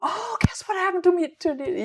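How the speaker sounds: play-acted bright, bubbly, very high, rushed childlike excitement. Imitating the other speaker telling daily stories: imitating excited childlike voice. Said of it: "so bright and childlike almost in your".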